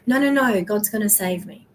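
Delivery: drowning man turns down the boat; stubborn refusal. Retold or imitated. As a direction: wave them away, sure of God.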